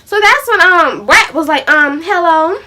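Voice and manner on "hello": hello with a touch of attitude. Retold or imitated. Rat answering the caller, trying to be funny, with attitude. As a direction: put a little attitude on the greeting. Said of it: "with an attitude now".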